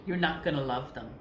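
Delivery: fast, breaking into a laugh. Real, not acted. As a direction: rush it out while starting to laugh. Laughing mid-sentence.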